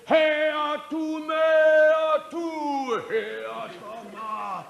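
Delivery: hollering across the river; mock holler into the distance; calling out. Calling out from the raft.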